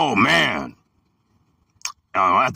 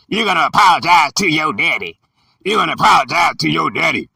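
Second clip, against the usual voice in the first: mock scolding parents; 3 semitones higher, faster than usual. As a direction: order the kid to say sorry. Parents order child to apologize.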